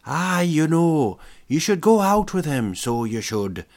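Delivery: hammed-up Irish accent, little wise creature; Irish Yoda voice. Pranking a girl on the phone, hammed-up Irish accent. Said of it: "I sounded like a, an Irish Yoda".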